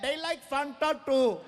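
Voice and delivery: drawn-out, high helpful call; yelling. Retold or imitated. Indian audience trying to help the comedian, yelling slowly. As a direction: call it out slowly across the room. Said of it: "They're yelling".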